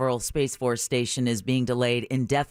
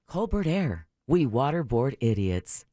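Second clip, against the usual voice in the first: mock airline slogan. Mock airline slogan being performed.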